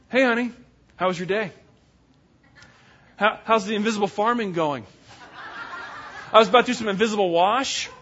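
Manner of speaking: sarcastic wife laughing through her words; mock him sweetly, laughing at the invisible farm; laughing mockery. Wife teasing her farming husband, laughing sarcastically. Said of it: "she's gonna ask him how his day's going".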